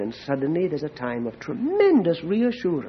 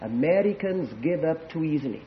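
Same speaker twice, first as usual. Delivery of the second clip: hushed confession; 3 semitones lower, 8 dB quieter than usual. Shown as a demonstration. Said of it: "I'll whisper it".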